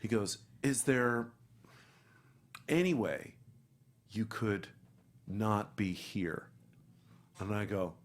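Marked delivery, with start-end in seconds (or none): 0.6-6.5 halting, drawn-out awkward request; nervous hesitation. Retold or imitated. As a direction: ask haltingly, with long awkward pauses. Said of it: "a P A comes in and he's sweating".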